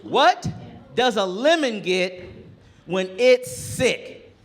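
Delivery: put-on milk the setup like a proud boy; boy proudly setting up his joke, slow and high; kid telling a joke. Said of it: "And he goes".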